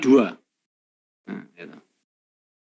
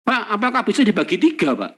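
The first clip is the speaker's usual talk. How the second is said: higher, curious student asking sir; student question; 5 semitones higher than usual. Retold or imitated. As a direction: voice a student asking the lecturer politely. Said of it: "Nah, pertanyaan nih". (suara mahasiswa bertanya, nada lebih tinggi)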